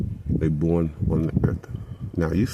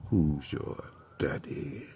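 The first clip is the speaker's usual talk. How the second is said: whispered; 6 dB quieter, slower than usual. Acted. Unvoiced, slow rhetorical.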